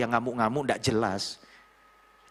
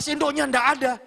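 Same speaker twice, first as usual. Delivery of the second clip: high-pitched, scolding complaint; imitated angry rant; 12 semitones higher, 4 dB louder than usual. Young boss finding no spoon on the table, mock angry rant. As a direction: fume over the missing spoon. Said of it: "dia marah-marah, ngamuk-ngamuk".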